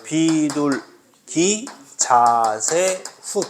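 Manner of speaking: very slow, stretched syllables ending on a short puff; mnemonic recitation. Shown as a demonstration. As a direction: recite the memory phrase syllable by syllable. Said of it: "예사 소리 불러봐. 시작". (한 음절씩 길게 늘여 외우는 구호)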